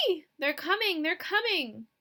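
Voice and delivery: high panicked scream. Acted. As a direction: scream it in terror, pitch way up.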